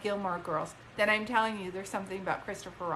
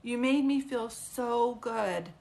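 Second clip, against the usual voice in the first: mom's grateful words; 4 dB louder, slower than usual. Retold or imitated. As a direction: say it slowly, as a thankful mom. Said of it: "She's like".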